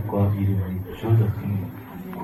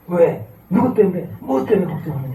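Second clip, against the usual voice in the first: higher, louder searching questions from God; the Lord questioning; 8 semitones higher, 4 dB louder than usual. Retold or imitated. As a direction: ask like a gently probing God. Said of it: "이렇게 말씀하십니다". (하나님이 묻는 높은 목소리)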